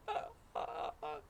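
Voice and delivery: airless, breathy gasping laughter; retelling how he laughed breathlessly after landing on his back; winded hysterical laugh. Retold or imitated. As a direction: laugh with no breath left in your lungs. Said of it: "I'm just laughing hysterically".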